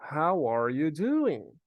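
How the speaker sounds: "How are you doing?" slow, with "are" fully pronounced; every word of "How are you doing?" separate and loud; full careful form. Shown as a demonstration. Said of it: "esse are aqui quase que não é pronunciado". ("How are you doing?" devagar, com o "are" inteiro)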